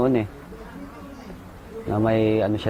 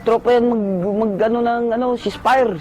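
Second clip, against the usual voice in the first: battle shout; 11 semitones higher than usual. Retold or imitated. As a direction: yell so the other side hears. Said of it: "Sigaw kami". (malakas na sigaw ng password)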